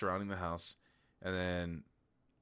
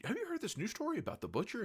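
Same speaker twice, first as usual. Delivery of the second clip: high, fast, sing-song mock singer voice; sly singer; faster than usual. The singer slyly needles the wife and kids, high and quick. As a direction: tease them with a fake-innocent lilt.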